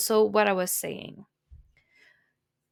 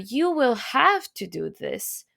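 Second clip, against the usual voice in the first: slow careful speech; slower than usual. Shown as a demonstration. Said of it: "You have to use the proper form with them".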